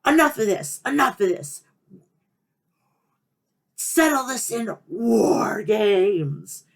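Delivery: commanding general manager's announcement, slowing right down at the end; William Regal. Acted. General manager comes out to settle War Games, commanding announcement. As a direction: make the decree, stretching the final words. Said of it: "And then he comes out".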